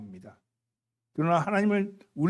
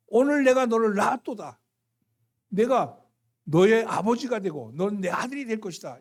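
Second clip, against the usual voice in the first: emphatic declaration; 3 semitones higher, 5 dB louder than usual. Acted. Preacher voicing God, emphatic.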